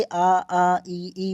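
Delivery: आ and ई with air only from the mouth; oral vowels. Shown as a demonstration. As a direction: sustain each vowel, no nasal sound. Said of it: "मुख से निकल रहा है". (केवल मुख से आ, ई)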